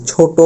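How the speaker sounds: ছোট said as "chhoto" with a held final o; final o sound. Shown as a demonstration. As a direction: close ছোট on a long ও. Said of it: "অটা ও করতেছি". (শেষে ও দিয়ে উচ্চারণ: ছোটো)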